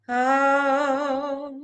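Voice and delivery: loud, held vowel as anger begins; angry sustained oh. Shown as a demonstration. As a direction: release a long angry "oh". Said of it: "Let the flux begin".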